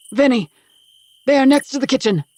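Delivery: pressing, high-pitched shout; urgent yell. A narrator's reading. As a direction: call across the house for help. Yelling for help across house.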